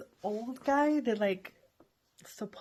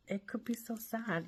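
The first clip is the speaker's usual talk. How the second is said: whisper; 2 semitones higher, 6 dB quieter than usual. Real, not acted. Sad aside about friend.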